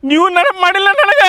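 fake crying. Sulking friend whines to the couple with fake tears. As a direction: whimper like a sulking child. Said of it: "ಎದಕ್ ಅಳಾಕತ್ತಿ?".

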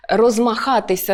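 "розмахатися" as roz-ma-KHA-ty-sia; third-syllable stress. Shown as a demonstration. Teacher shows stress moving along, "розмахатися" stressed on the third syllable. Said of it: "третій".

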